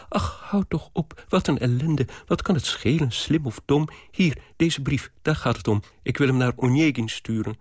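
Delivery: lightly voiced exasperated girl; girl cutting her nanny short; impatient young girl. Tatjana impatient, higher. (licht ongeduldig meisje)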